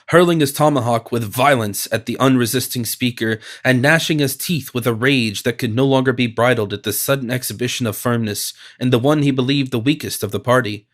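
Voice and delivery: ordinary delivery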